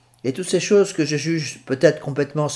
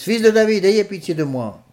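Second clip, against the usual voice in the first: much higher, louder desperate plea; crying out louder; 7 semitones higher, 3 dB louder than usual. Acted. Blind man crying louder though the crowd hushes him, loud plea. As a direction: shout it over those silencing you. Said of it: "il criait encore plus".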